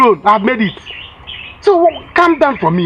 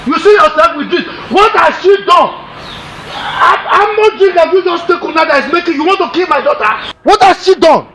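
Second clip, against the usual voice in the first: scolding shout; 5 semitones higher than usual. Acted. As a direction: shout down the drunk wife. Father confronting drunk wife.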